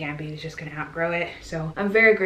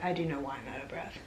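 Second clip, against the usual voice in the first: whispered confession, quick and unvoiced; whispered aside; 3 semitones lower, 7 dB quieter, faster than usual. Real, not acted. Admitting to viewers why she's breathless, quick whisper. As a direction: drop to a quick whisper, sharing a secret.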